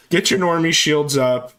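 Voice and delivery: slow, high, loud order; slow mock command. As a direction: draw out the battle call. Command repeated slowly.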